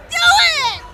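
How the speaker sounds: challenge. Acted. Party member dares Atlas to lift, loud. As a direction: egg him on with a shout.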